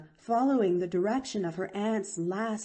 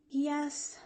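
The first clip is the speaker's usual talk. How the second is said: mild sigh; 8 semitones higher, 3 dB quieter than usual. A narrator's reading. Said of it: "sighed Pollyanna".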